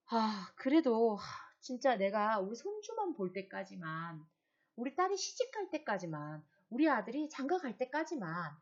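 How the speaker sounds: mild acted bargaining, begging to live until the grandchild. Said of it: "자꾸 타협하려고 하죠".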